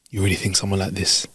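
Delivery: solemn pleading. Pretend. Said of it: "I'd look at them and go".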